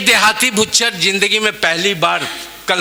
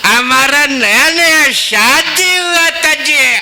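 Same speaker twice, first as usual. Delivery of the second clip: South Indian Hindi, raised and lively; Madrasi accent in Hindi; 5 semitones higher than usual. Acted. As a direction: tell it like a Madrasi babu. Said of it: "मैं दोनों का अंदाज आपके बीच पेश कर रहा हूँ".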